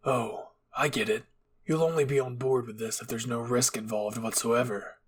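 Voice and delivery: cold sarcasm. Acted. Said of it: "Levi glared in Eren's direction".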